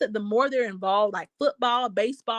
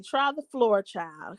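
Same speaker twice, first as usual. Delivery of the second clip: sassy advice; 4 dB quieter, slower than usual. Real, not acted. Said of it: "something about that floor".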